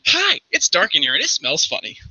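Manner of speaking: lightly voiced little catfolk; innocent Chester. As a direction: report it with oblivious innocence. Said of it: "He's like".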